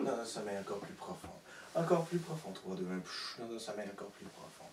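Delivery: low, hushed hypnotist patter with hissed shushes; hypnotic suggestion. Real, not acted. Hypnotist planting a suggestion in a sleeping volunteer, hypnotic suggestion.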